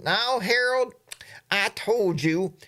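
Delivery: imitating a wife chiding her husband, drawn out; scolding wife. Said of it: "his wife was talking".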